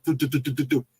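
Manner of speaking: rapid run of "do-do-do"; imitated scampering. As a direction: mimic quick feet running away. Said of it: "And then you hear".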